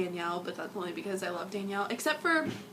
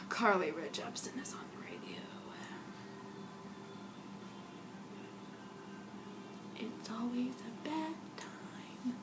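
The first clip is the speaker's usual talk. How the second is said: sick voice; 2 semitones higher, 12 dB quieter than usual. Real, not acted. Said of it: "I can't talk".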